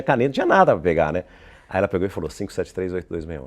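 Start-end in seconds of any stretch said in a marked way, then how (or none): 2.3-3.4 phone number rattled off; retold quick dictation. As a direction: run the digits together, imitating her. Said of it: "Bem rápido o telefone".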